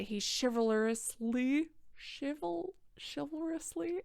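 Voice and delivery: stumbling over "chivalrously", restarting it slowly; struggling with a word. Real, not acted. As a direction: fight through "chivalrously" a syllable at a time. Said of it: "I can say words".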